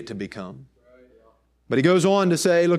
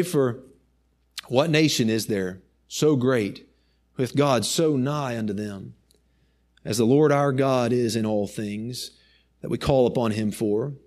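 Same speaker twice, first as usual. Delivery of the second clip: low, measured reading with long pauses; solemn scripture reading; 3 semitones lower than usual. Real, not acted. Preacher reading Moses' words to the congregation, solemn scripture reading. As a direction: read the verse gravely, letting phrases settle. Reads scripture aloud slowly.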